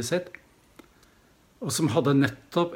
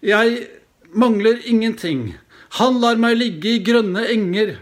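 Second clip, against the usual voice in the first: loud solemn recitation; 7 semitones higher, 7 dB louder than usual. Retold or imitated. Grown confirmand reciting his pilgrim word to the priest, loud proud declamation. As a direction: proclaim it proudly with full voice. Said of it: "Høy, sterk, og bruker stemme".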